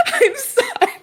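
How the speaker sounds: laughing apology. Real, not acted. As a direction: apologize through helpless giggles. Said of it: "I'm laughing at Parsley".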